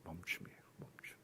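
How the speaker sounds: whispered. Shown as a demonstration. Preacher ending on pause, whispered to the congregation. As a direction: let the word fade to a hush. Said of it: "스톱은 끝이 아닙니다".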